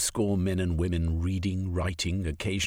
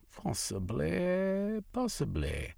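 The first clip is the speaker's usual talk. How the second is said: musing; 10 semitones higher, 6 dB quieter, slower than usual. Acted. Marx muses slowly.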